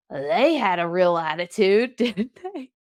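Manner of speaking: retold snarky remark. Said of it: "and that person goes".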